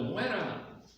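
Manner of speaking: mob cry, pitched high; crowd yelling. Acted. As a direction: shout it like the angry mob. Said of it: "la muchedumbre del pueblo venía detrás y gritando". (grito de la multitud, agudo)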